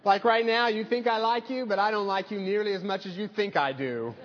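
lightly put-on Southern accent, friendly and teasing; thick Southern accent. Pastor retelling a Southern host's teasing reply, light Southern accent. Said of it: "in this thick Southern accent".

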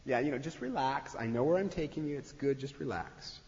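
gentle smiling Jesus calming a nervous rider; calm, smiling reassurance. Retold or imitated. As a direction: soothe an anxious passenger. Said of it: "Jesus just smiles at us and he says".

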